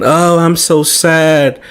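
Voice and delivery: slow, mocking sad whine; mock whiny sadness. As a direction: drag it out like a sulking partner. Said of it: "But you still wanna cry".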